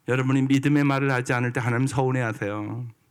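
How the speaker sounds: ordinary talk, nothing marked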